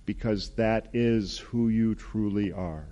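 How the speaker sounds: unhurried, solemn words of blessing; God's loving voice. Acted. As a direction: lightly voice God blessing a beloved child. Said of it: "I'd like you to hear that voice".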